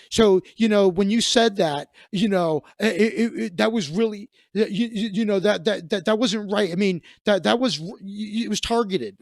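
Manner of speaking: flustered stammering woman. Retold or imitated. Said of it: "She goes".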